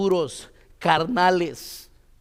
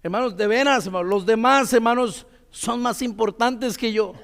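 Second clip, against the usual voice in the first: heartfelt insistence; 2 semitones higher than usual. Shown as a demonstration. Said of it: "así como que te la crees".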